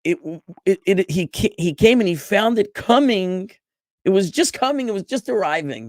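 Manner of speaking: eager excitement building on just; teacher excitedly explaining the arriving boat, high and loud. Real, not acted.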